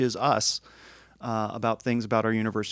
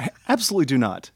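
quick laughing I absolutely do not; laughing denial; faster than usual. Real, not acted.

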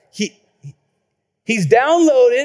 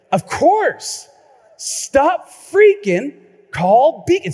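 high, louder, stretched slogan; excited realization; 7 semitones higher, 5 dB louder, much slower than usual. Retold or imitated. Pastor realizing the plumber jingle holds the answer, excited. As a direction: belt it out as the answer dawns.

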